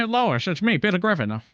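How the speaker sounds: a light Peter Griffin voice; dopey dad talking to Lois; Peter Griffin impression. Streamer doing impressions, lightly voiced Peter Griffin.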